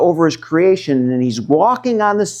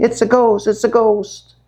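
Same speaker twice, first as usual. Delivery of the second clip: mock frightened cry; 7 semitones higher than usual. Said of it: "They're crying".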